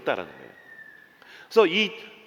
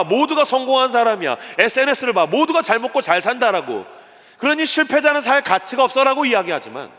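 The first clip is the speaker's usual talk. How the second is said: high, driving sermon delivery; forceful preaching; 7 semitones higher, 4 dB louder than usual. Acted. Preacher warns congregation about a survival-game society, forceful preaching. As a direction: press each phrase home, high and insistent.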